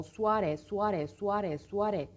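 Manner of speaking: suare repeated back to back; rapid-fire repetition drill. Shown as a demonstration. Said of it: "Arka arkaya seri şekilde tekrarlayacağız".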